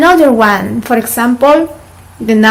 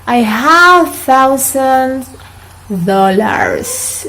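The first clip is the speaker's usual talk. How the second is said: "I have thousand dollars" slowly in a light Peruvian accent; much slower than usual. Shown as a demonstration. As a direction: mimic a Peruvian learner. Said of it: "it's kind of Peruvian accent".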